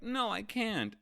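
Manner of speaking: high-pitched cowardly whine, hammed up; mock panicked protest. Momo refusing to bite Kaido, mock panic. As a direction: squeal it like a scared kid in a retelling.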